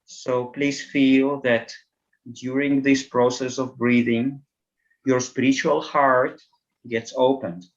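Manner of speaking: calm meditation voice, spaced-out phrases; guided meditation. Acted.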